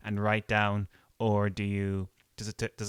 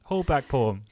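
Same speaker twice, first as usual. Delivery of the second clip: mock urging calm; 8 semitones higher, 7 dB louder than usual. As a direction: pretend to rein in a runaway poem. Talking to an overeager poem.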